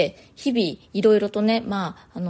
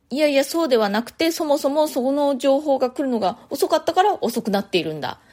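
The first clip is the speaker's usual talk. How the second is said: higher-pitched mock defensive retort; acted blame-shifting; 5 semitones higher than usual. Meeting participant pointing the finger back at a colleague, mock protest. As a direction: lightly act out pushing the blame back. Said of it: "非難のし合いみたいに".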